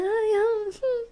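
high, whimpering dainty sighs; little princess. Shown as a demonstration. Speaker mocking how she used to talk, high princessy whimper. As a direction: put on a delicate princess whine. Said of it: "eu era muito princesinha".

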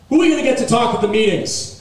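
high, loud mock despair; exasperated outburst. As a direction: wail it in mock anguish. Mock despair over Alec Baldwin.

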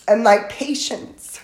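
real emotion catching in the voice; emotional. Real, not acted. Teacher excusing herself while reading scripture, emotional. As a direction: pause to collect yourself, moved by the verse. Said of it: "it makes me emotional".

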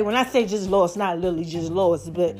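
breathless, catching air between phrases; out of breath. Real, not acted. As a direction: talk while short of breath. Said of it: "I sound like I'm so out of breath".

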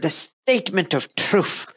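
lightly mimicked Irish pronunciation, drawn out slowly; imitated Irish accent. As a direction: echo it slowly with a hint of Irish. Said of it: "I love the way you said that".

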